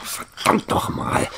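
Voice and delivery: slow, hushed curse under the breath; whispered curse. Acted. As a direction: swear quietly to yourself in frustration. Frustrated search, muttered curse. (geflüsterter Fluch)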